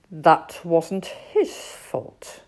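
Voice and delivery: slow, gentle reassurance; calm owl. Acted. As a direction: soothe them slowly. Owl's voice.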